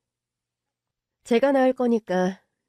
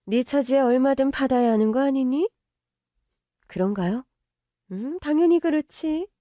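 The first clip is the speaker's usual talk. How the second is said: higher, smug and belittling; smug rich mother; 4 semitones higher than usual. Acted. Mother belittling the girlfriend, smug. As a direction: remind her of her place.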